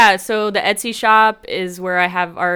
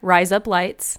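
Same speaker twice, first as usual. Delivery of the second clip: Aussie accent; 5 dB louder than usual. Shown as a demonstration. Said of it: "Say it".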